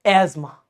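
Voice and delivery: "एस्मा" soft and low as "esma"; silent th. Shown as a demonstration. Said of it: "अस्थमा ना". ("एस्मा" धीमे से, बिना थ)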